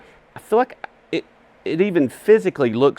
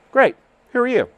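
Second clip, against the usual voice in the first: mock Californian accent; 11 semitones higher, 4 dB louder than usual. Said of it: "They didn't talk Southern".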